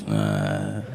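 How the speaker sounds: low, dull grunt; imitated phone noise. Man replies to a hello, low wordless grunt. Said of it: "answers the phone with a noise".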